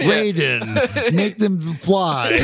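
villain voice. Retold or imitated. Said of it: "Lo Pan should have said".

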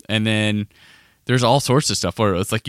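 usual speaking voice

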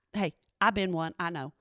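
usual speaking voice

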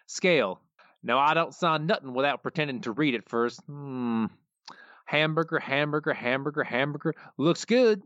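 Cletus voice. Retold or imitated. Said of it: "I'll start out doing the Cletus voice".

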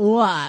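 "la" with a full, hard L; hard English L. Shown as a demonstration. Co-host showing how English speakers say it, hard-L "la". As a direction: lean on the L of "la". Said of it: "It's a little softer than what we do".

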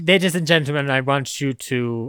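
lightly hammed-up showman addressing the crowd; a hint of grand stage announcer; premiere announcer. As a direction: play a host welcoming a gala audience, with halting delivery. Plays premiere host addressing audience.

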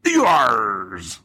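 drawn-out pirate yar; imitated pirate Red Ranger yell; pirate battle cry. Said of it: "So his ewas are like".

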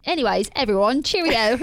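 put-on English accent. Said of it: "English accent around Finn".

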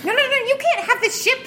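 high squeaky little creature, protesting fast; small creature voice. Acted. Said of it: "a much smaller voice".

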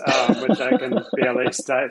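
breaking into a laugh mid-word. Real, not acted. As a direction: chuckle through the words. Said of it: "say with a straight face".

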